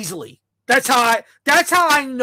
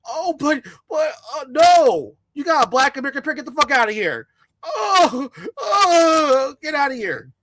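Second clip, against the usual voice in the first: mock rejection; 3 semitones higher than usual. Mocking a Dominican rejecting the pushy suitor. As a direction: shoo him off, hammed-up. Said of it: "Dominican rejecting the suitor".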